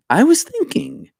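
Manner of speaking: put-on a high, failed stab at an Irish accent; self-mocking attempt at an Irish accent; bad Irish accent. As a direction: try an Irish lilt and botch it. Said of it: "I can't do an Irish accent".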